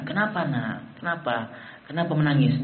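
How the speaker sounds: put-on softly asking a crying child; hushed, tender questions to a little one; gentle parent. Parent to a crying child, gentle and soft.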